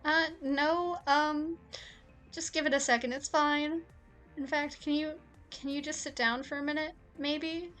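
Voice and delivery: high, loud, flustered stalling; nervous. Acted. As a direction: stumble nervously through the request. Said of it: "He looks more nervous than I've ever seen him".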